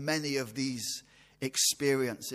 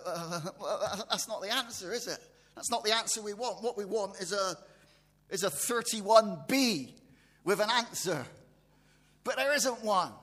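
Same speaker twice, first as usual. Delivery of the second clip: chuckling, higher voice; laughing; 4 semitones higher than usual. Real, not acted. Preacher joking to the congregation about a missing answer, laughing. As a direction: laugh it off as a playful joke. Preacher jokes wanting another verse.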